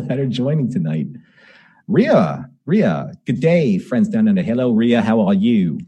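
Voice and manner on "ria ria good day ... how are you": mock Australian greeting, lightly done; terrible Australian accent. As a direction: put on a bad Australian accent. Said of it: "my terrible Australian accent".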